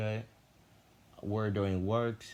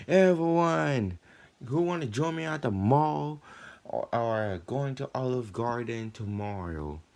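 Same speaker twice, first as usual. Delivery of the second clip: calling out; 7 semitones higher, 5 dB louder than usual. Retold or imitated. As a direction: hail the whole room at once. Calling out to the class.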